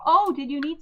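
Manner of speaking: high, loud Midwestern sweetness; cheesy Midwestern accent. Acted. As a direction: lay on a cheesy Midwestern friendliness. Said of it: "cheesy Midwestern accent".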